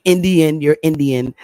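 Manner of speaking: "Indian" pronounced carefully, every syllable distinct; clear pronunciation. Shown as a demonstration. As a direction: enunciate "Indian", no slurring. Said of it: "clearly pronounce it".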